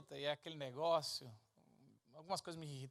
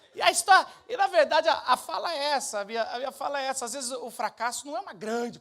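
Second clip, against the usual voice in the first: loud, higher preacher's push; preaching; 7 semitones higher, 15 dB louder than usual. Acted. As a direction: drive the point home to the crowd. Preaching at full force.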